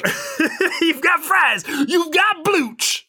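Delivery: high, laughing mock announcer; laughing ad pitch. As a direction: giggle through the pitch. Joining the mock fair pitch.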